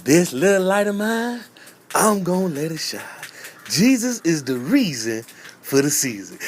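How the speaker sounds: a lightly voiced kid reciting; kid's church recital. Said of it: "I know my speech".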